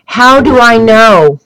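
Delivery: retold exasperated rant. Retelling how she argued with the postal clerk, exasperated. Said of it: "I said".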